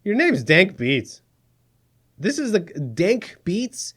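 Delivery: slow, deadpan ridicule of the name Dank Beats; slow mocking. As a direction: drag out the name to mock it.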